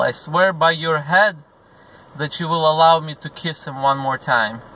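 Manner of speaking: mother's mock cry, pushed up high; retold scream. Mother begging the general to kiss her son, hammed-up cry. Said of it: "the mother starts screaming".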